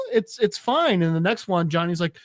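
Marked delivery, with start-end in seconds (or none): 0.1-1.0 high-pitched mock nervousness; nervous placating. Captive answering the maniac about milk, high nervous stammer.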